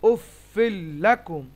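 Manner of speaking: "উফিল লাকুম" slow, joined through a held l; doubled l. Shown as a demonstration. Teacher reciting the merged word, doubled l. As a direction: hold the l as "উফিল" runs into "লাকুম". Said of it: "তাসদিদের সঙ্গে মিলছে এখানে".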